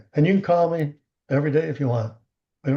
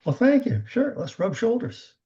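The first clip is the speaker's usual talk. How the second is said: gracious acceptance; 8 semitones higher than usual. Shown as a demonstration. Models confident acceptance of a compliment.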